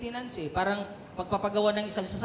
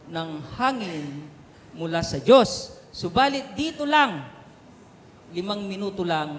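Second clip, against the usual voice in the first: put-on tearful old man; 5 dB louder than usual. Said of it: "Sumagot yung tatay, Sabi niya".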